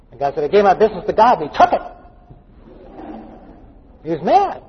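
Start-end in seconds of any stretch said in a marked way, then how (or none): 0.4-1.8 higher, louder mock outrage; indignant punch up on the final words; indignant complaint. Man griping to friend about giving his business to God, indignant. Angry man quoted in anecdote.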